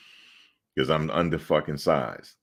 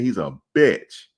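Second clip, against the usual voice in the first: slow, deliberate insult, a bit louder; slow blunt insult; 4 semitones higher, 4 dB louder, slower than usual. Retold or imitated. Player telling the ref about his opponent, slow and blunt. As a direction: lay each word down slowly so the ref hears it. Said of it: "I said it just like that".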